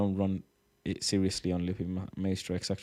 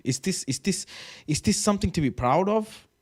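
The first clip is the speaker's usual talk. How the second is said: incredulous; 10 semitones higher than usual. Real, not acted. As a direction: squeak it out in outrage. Reacting to a tweet in disbelief.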